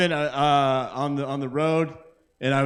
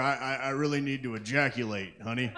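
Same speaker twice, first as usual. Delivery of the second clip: mock pleading husband; 3 semitones lower, 8 dB quieter than usual. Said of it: "he'd be like".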